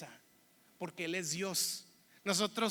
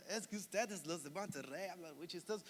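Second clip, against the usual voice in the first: retold Monterrey accent; 4 semitones lower, 9 dB quieter than usual. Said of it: "notan ese acento así como golpeadón, cantadito".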